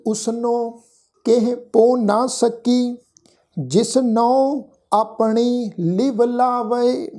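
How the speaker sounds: slow, drawn-out chanted reading of gurbani; scripture recitation. Acted. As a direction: intone each word slowly and reverently.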